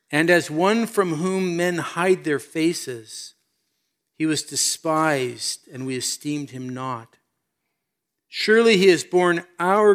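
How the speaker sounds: deliberate, weighty reading of a prophecy; scripture reading. Acted. Preacher reads Isaiah fifty-three to the congregation, deliberate scripture reading. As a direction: read the verses out solemnly, phrase by phrase.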